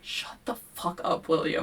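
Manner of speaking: whispered hush; mock whisper. Sky hushing William near the creature, urgent whisper. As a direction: hiss at him to be quiet. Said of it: "she's like".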